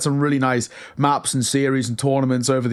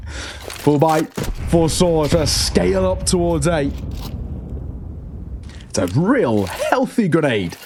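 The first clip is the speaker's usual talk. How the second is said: excited live play-by-play; esports caster. Real, not acted. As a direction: call the clutch as it unfolds.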